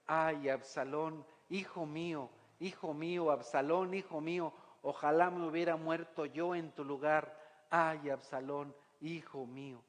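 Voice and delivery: a gentle, understated wail of loss; mournful lament. Acted. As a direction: draw out each "Absalón" like a broken-hearted father. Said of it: "lloraba y decía".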